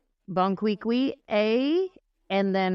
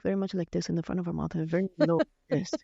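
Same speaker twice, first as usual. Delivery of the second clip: fast front-of-mouth speech; 2 semitones lower, 3 dB quieter, faster than usual. Shown as a demonstration. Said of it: "come in the front of her mouth".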